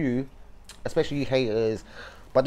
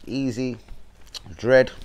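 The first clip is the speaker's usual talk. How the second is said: put-on Jamaican accent; much slower than usual. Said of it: "I'm trying to be Jamaican".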